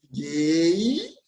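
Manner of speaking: normal talking voice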